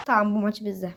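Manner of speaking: soft whispered certainty; quiet confident whisper. Real, not acted. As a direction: whisper it like a secret.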